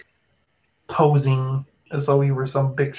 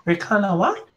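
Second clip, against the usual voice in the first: much higher, frantic little creature; a tiny monster losing track of its friend; panicky creature voice. Acted. NPC calls out to Alex after the goblin vanishes, much higher panicky voice.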